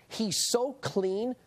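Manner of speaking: "so" stretched out slowly with a rising tune; drawn-out so. Acted. Telling viewers how clean Romney is, slow stress on "so". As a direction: lean hard on "so" and draw the whole line out.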